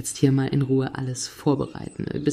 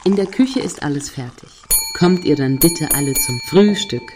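calling the household; 4 dB louder than usual. Acted. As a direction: summon everyone to the table from the kitchen. Mother calls everyone to breakfast.

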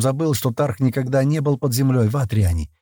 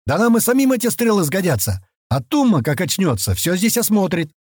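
indignant; 9 semitones higher than usual. A narrator's reading. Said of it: "возмутился Ултер".

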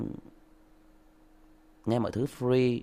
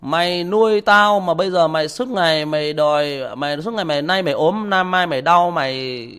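higher and louder, insulting his father; angry son; 6 semitones higher, 9 dB louder than usual. Retold or imitated. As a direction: rail at him like a bitter son. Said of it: "Nó chửi lại".

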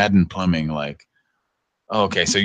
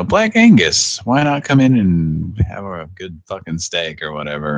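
hammed-up ad announcer; mock steakhouse ad. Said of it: "Black Angus evidently used to be like".

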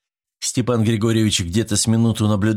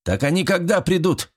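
sharp high bark of a gruff caretaker; 10 semitones higher than usual. Acted. One-armed caretaker barks at the boy, barking. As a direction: snap the question out. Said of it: "рявкнул Однорукий".

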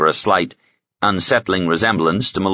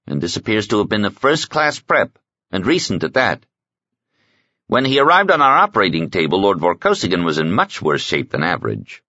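slightly raised, lightly characterised medic voice; lightly voiced Raven, professional; 3 semitones higher than usual. Medic comparing two cryo patients, professional. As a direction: lightly play a medic giving an assessment.

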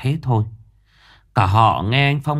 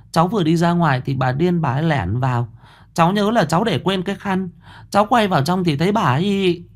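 lightly voiced timid servant girl, higher; young servant voice; 8 semitones higher, faster than usual. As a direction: answer the mistress nervously, pitched up. Frightened young servant answers mistress. (hầu gái sợ sệt đáp lời bà chủ, giọng cao hơn)

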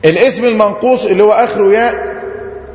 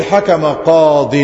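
drawn-out example; 4 semitones lower, much slower than usual. Shown as a demonstration. Teacher says the shortened example.

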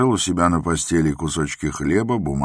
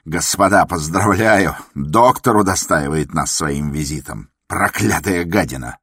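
shrieking in rage; 2 semitones higher, 5 dB louder than usual. A narrator's reading. A patient mocks and curses the doctor, enraged and loud. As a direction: scream your fury at the doctor. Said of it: "Взвизгнул он".

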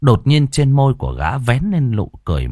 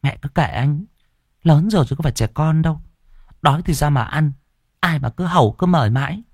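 pouting dismissively; 7 semitones higher, faster than usual. Acted. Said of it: "bĩu môi".

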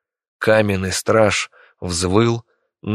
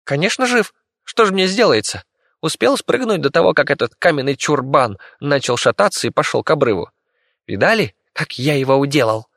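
high, cocky rodent voice; a tiny rat bragging about his victory; boastful squeaky rat; 6 semitones higher than usual. Acted. The rat boasts to the children about beating the monster, high cocky squeak.

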